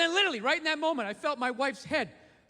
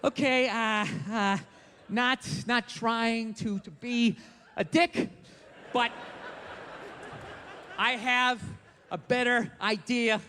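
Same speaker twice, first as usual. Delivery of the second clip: tactful hesitation; 2 semitones lower, slower than usual. Acted. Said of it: "just have to sit there going like".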